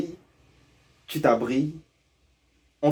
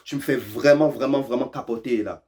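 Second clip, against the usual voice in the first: mock freak-out. Shown as a demonstration. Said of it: "example of freaking out".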